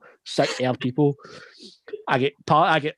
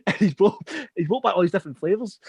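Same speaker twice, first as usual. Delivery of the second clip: higher voice, breaking with laughter; amused; 7 semitones higher than usual. Real, not acted. Host telling mates about edible bars, laughing. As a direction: stumble back into the story through giggles.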